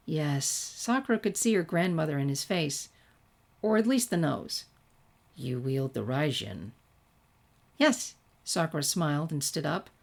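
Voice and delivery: even storytelling read with light character voices; story narration. A narrator's reading. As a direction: read the tale to your listeners. Reads fan fiction aloud.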